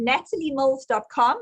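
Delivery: natalie mills dot com in a South African accent. Shown as a demonstration. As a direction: say the web address with South African vowels. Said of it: "I'm gonna say it in South African accent".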